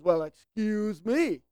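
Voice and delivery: mock-offended, stretching out the comeback; defensive sarcastic retort. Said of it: "you could get a defense of yourselves".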